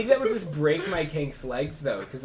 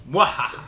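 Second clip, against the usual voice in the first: evil laugh; 6 dB louder than usual. Acted. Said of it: "a deep, gravelly voice".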